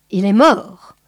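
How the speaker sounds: breathy whispered "Il est mort"; hushed, unvoiced whisper. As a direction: drop to a whisper over the body. Boa voicing over wounded man.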